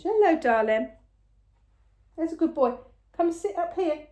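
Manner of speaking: high, sing-song coaxing to a pet. Real, not acted. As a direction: sweet-talk the little one up onto your lap. Coaxing the pet mid-filming.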